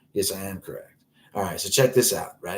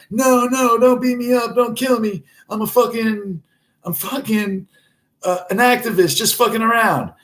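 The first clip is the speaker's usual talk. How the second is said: very high, loud whimpering plea; pleading activist; 6 dB louder than usual. Retold or imitated. Activist on the ground begging the cashier, squealing in fear. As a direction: beg for mercy in a squeaky panic. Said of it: "he was like".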